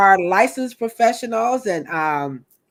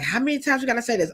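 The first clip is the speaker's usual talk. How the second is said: imitating weary viewers; 4 semitones higher, much faster than usual. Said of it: "I know y'all like".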